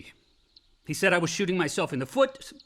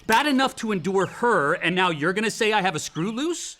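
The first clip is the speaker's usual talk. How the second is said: angry retort; 4 semitones higher, 4 dB louder than usual. Acted. Quarrel with father over shrink.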